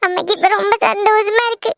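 proud mother comforting through tears; gently weepy reassurance; tearful. Acted. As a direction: soothe your child while crying a little. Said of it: "எதுக்கு லட்சுமி நீ அழுதுட்டு இருக்க".

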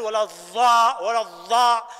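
"الضاء" cut off, with the lam and the ending lost; clipped mispronunciation. Shown as a demonstration. Teacher shows a wrong, clipped "ولا الضاء". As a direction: clip "الضالين" down to "الضاء". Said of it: "ولا تقول".

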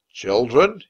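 loud, indignant question; acted angry disbelief with a rising end; quiet anger. A narrator's reading. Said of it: "in a quiet, angry voice".

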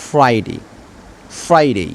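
ফ্রাইডে with the r clearly spoken; r in Friday sounded. Shown as a demonstration. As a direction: say ফ্রাইডে, rolling the r after f. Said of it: "আর এর পরে vowel থাকলে অবশ্যই সেই আর এর উচ্চারিত". (ফ্রাইডে, আর স্পষ্ট উচ্চারণ)

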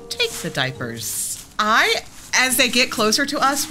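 usual speaking voice

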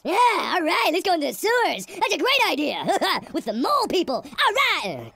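lightly mocking, over-eager enthusiasm; sarcastic gung-ho cheer; hyped-up fool. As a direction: play someone buzzed and thrilled by a bad idea. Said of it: "that fear powder, I just laid it on a table".

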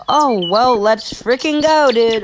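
excited victory cheer. Real, not acted. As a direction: cheer the win, high. Celebrates winning.

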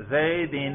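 زیدن said as "Zaydin", ending in "-in"; demonstrated case ending. Shown as a demonstration. Teacher quizzing students on case by sound, demonstrated ending. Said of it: "میں صرف تلفظ کر رہا ہوں زبان سے".

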